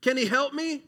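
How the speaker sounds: high, loud anguished crying out to God; a hurting child pleading loudly with God; desperate plea. Acted. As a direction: beg God like you're hurting. Believer asks doubt desperately.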